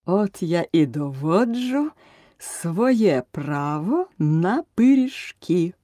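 slow, drawn-out triumphant claim; triumphant exclaim. Acted. King gloats to the court, slowly triumphant. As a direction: savour each word like a win. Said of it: "переможно вигукнув король".

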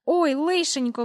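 a high startled exclamation; alarmed cry. A narrator's reading. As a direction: gasp it out in sudden fright. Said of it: "вигукнув він". (злякано вигукнути)

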